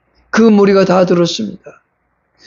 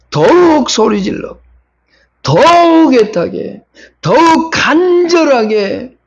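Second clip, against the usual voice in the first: choked with longing; 6 semitones higher, slower than usual. Real, not acted. Preacher pleading for the blind men, tearful. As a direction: voice catching on each word, slow. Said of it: "preacher's voice breaking with longing".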